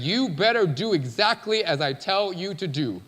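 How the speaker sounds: firm order, each word pressed; forceful, in his face. Retold or imitated. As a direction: lay down the law as God. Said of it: "in his face".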